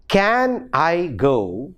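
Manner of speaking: CAN said slowly in its full strong form; "Can I go" slow, word by word; strong articulation. Shown as a demonstration. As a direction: give "Can" a full vowel, each word separate. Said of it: "strong articulation of weak function class".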